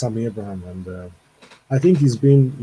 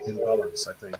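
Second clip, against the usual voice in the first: distorted, crackly mic; fuzz distortion; 3 semitones lower, 7 dB quieter than usual. Real, not acted. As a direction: voice breaking up through a bad mic. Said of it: "you sound really distorted".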